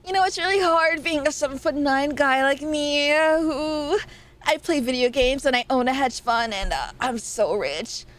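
lightly voiced tall rich guy bragging; a hint of a smug dude, playing it up; Deku voice. Streamer mocking tall guys for chat in her Deku voice, light smug. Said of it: "in my Deku voice".

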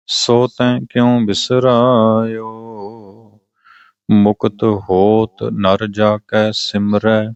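slow, measured recitation of a sacred hymn; scripture recitation. Acted. Reciting the Ramkali hymn for listeners before explaining it, slow reverent recitation. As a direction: recite each word deliberately, drawing out the line endings.

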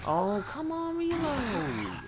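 loud, high exasperated yell; frustrated shout. Real, not acted. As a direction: yell at the gun to reload.

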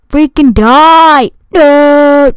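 fed-up slow demand; frustrated. Real, not acted. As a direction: drag it out, fed up. Frustrated at enemy not dying.

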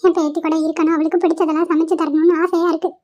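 half laughing, half crying; words catching on a sob; teary grandmother. Acted. Grandmother to granddaughter's husband, tearful. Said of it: "ஏன் பாட்டி இப்படி அழுவுறீங்க".

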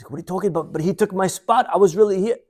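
high, protesting mock disbelief; retold disbelief. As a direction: imitate an incredulous complaint. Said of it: "this lady cannot believe".

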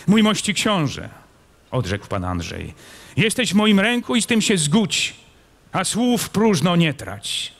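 defiant noble. A narrator's reading. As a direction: tell him flatly he is captive.

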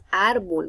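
"árbol" with ÁR stretched; stress on first syllable. Shown as a demonstration. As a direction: lean on the ÁR of "árbol". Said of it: "mayor fuerza de voz en la segunda sílaba".

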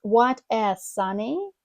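slow "What a sunny" with "What a" glued as "wadda"; slow linked words. Shown as a demonstration. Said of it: "Ми поєднуємо і склеїмо разом".

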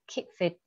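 long "ee" in Keep, short "i" in fit; long then short i. Shown as a demonstration. Teacher showing students Keep with long ee, fit with short i. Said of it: "Ý dài, ý ngắn nhá".

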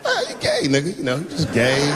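squeaky mumbled reassurance, trailing off; mumbling. Retold or imitated. Comedian mumbling to his friend's fiance, awkward and squeaky. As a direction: mumble it awkwardly with no idea what to say. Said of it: "I started mumbling again".

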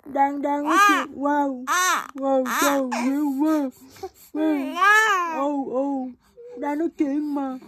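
high, drawn-out cooing. Real, not acted. Mother cooing as baby cries. (giọng cao nựng em bé đang khóc)

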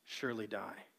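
a lightly voiced sly serpent; serpent's denial. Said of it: "the serpent said to the woman".

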